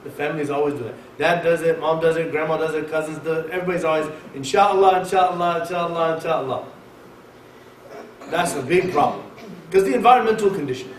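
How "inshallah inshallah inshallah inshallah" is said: run-together, sinking refrain; mock rote repetition. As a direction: reel it off like an empty habit, fading. Mimics family's habitual inshallah.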